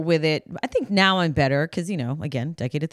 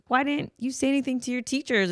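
concerned parent; 8 semitones higher, 3 dB quieter, faster than usual. Retold or imitated. Parent voiced to child.

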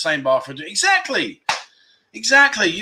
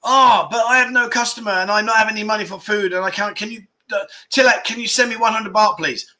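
put-on bar girl voice; 3 semitones higher than usual. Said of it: "So I'm now the bar girl".

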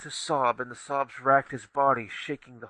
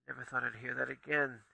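softer, hushed, not a true whisper; understated hush, quieter; 7 dB quieter than usual. Acted. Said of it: "he whispered".

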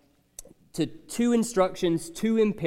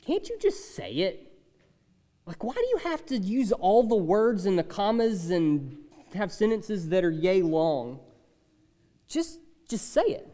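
exasperated reader; 4 dB quieter than usual. Retold or imitated. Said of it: "thought to ourselves".

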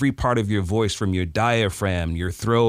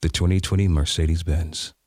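low, easy, unhurried luxury read; relaxed read; 3 semitones lower than usual. Shown as a demonstration. Student reading Mercedes copy after relaxing, calm and lower. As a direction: let it sink back like in a leather seat. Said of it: "Yeah, give me that".

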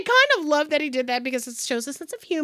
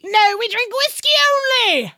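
lightly voiced Irish accent as a rapper; a touch of an Irish lilt, playful; hint of Irish; 7 semitones higher than usual. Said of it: "can he have an Irish accent".

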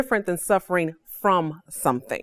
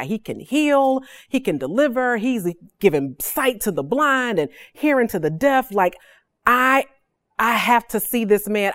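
lightly voiced woman, pitch lifted with eager hope; a hint of a desperate woman talking herself into it; hopeful woman; 2 semitones higher than usual. Preacher voicing the bleeding woman's eager hope. Woman with issue of blood speaks.

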